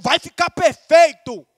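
slow, rousing encouragement; rally them with a drawn-out, emphatic declaration; encorajando. Shown as a demonstration. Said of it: "Fala encorajando". (encorajando com entusiasmo)

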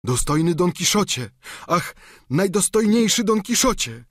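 battered squire calling his master, tearful; weak tearful voice. Acted. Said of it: "słabym i płaczliwym głosem".

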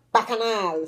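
"Bacchanal" with a falling melody, last syllable drawn out; melodious stress. Shown as a demonstration. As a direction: give "Bacchanal" a tune, holding the end. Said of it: "See the melody".

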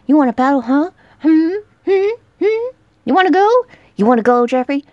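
loud, rising, goading; hammed-up challenge to a fight; mocking taunt. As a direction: egg him on, cocky.

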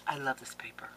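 soft, breath-only murmur of love; hushed, adoring near-whisper. Real, not acted. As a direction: whisper it lovingly. Same words, hushed adoration.

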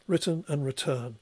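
"written" with stress up front, "return" with stress at the end; "written" front-stressed, "return" stressed on its last syllable; contrasting lexical stress. Shown as a demonstration. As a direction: show the stress shift from WRIT-ten in "written" to re-TURN in "return". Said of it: "an emphasis on the first syllable".

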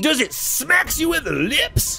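high, slow, stretched-out pitch; cartoon frog mascot. Mascot asking a child about cereal, high drawn-out pitch. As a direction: draw out the key words like a slogan. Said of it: "I'm Smacks the Frog".

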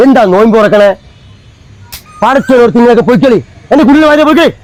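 irritated rising rant; angry. Acted. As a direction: shoo off nosy neighbours angrily. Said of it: "നീ എന്തിനാ ചൂടാകുന്നത്?". (ദേഷ്യത്തോടെ)

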